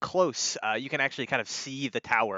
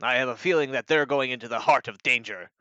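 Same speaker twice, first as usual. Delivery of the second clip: loud, higher commander's voice; Sir Barracks; 3 semitones higher, 9 dB louder than usual. Acted. Commander addressing the knights, loud and commanding. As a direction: order the troops with force. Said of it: "turns to, to the knights and he says".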